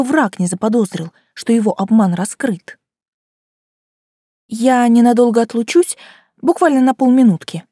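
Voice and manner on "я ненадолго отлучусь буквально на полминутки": convincing. Acted. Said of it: "невероятно убедительно сказала я".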